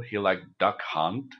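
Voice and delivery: usual speaking voice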